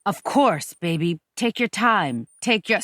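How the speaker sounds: measured, placating reassurance; soothing, doctor-like. Acted. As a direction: reassure her like a doctor with a patient. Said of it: "talking to me like you is my fucking doctor".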